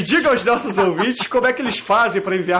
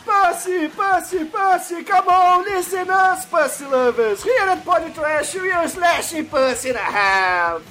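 ad announcer; 5 semitones higher than usual. Acted. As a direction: sell it like a TV ad. Mock English sales ad.

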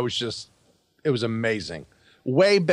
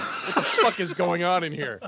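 higher-pitched imitation of a yell; mock yell; 7 semitones higher than usual. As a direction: imitate someone yelling out, without full volume. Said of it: "and yell out".

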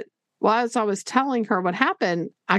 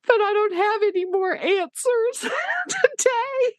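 higher, slow, laughing through tears; tearful laugh; 13 semitones higher, slower than usual. Real, not acted. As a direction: laugh it out while nearly crying, higher.

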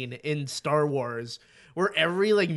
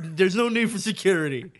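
louder retold objection; mock protest; 3 semitones higher, 5 dB louder than usual. Man retelling his plea to the parents, mock protesting. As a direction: act out a defensive objection.

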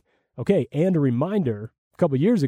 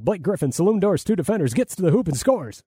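Brian Seaman call; 6 semitones higher than usual. Retold or imitated. Recalling a Clippers highlight call, higher excited announcer voice. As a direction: rattle it off like a live TV call. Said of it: "he's like".

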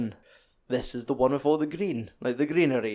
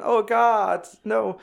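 mock scream; 9 semitones higher, 4 dB louder, much slower than usual. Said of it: "That woman's scream".

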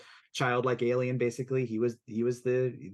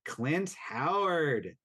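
slow dramatic reveal; much slower than usual. Acted. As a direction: drag the name out slowly. Reveal of the guest star.

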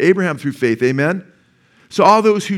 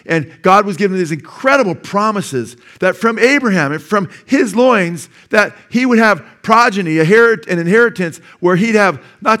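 rising preaching; 6 semitones higher, 5 dB louder than usual. Real, not acted. Preaching the promise to Abraham.

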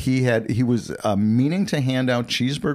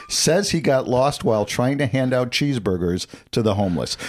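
headline read. Shown as a demonstration. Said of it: "listen to this very intently".

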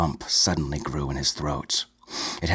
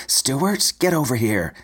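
screaming for her husband; 7 semitones higher than usual. A narrator's reading. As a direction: yell for Stuart in alarm. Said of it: "she screamed".

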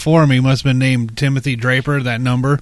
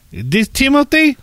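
higher, probing pushy caller; telemarketer voice; 10 semitones higher, slower than usual. Retold or imitated. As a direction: fumble the name like a pushy caller.

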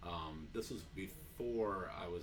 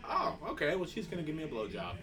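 higher, louder, laughing as the gullible DJ; mock dopey DJ; 6 semitones higher, 4 dB louder than usual. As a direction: play the DJ happily fooled. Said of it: "You know, like".

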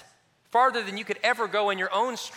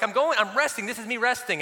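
defensive protest; 4 semitones higher than usual. Retold or imitated. Husband insisting to wife he is resting, mock defensive. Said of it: "I'm like".

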